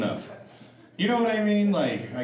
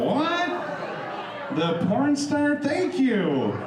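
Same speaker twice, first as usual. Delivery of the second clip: mock surprise; 11 semitones higher, much slower than usual. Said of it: "I was all".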